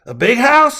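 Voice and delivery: put-on high, loud kid voice; ten-year-old child. A narrator's reading. Child calling to new neighbor, curious kid voice. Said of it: "the boy asked".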